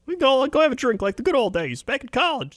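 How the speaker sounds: high, laughing whiny Ray Romano voice; Ray Romano impression. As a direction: plead like Ray Romano begging a buddy out for drinks. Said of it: "That is a surprisingly accurate Ray M-, Romano".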